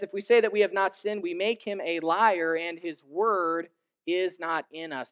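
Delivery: scripture reading. Acted. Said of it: "Verse ten says".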